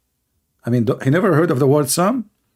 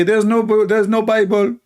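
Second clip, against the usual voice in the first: mock challenger; 8 semitones higher than usual. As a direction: sneer it out as the challenger. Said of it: "they say".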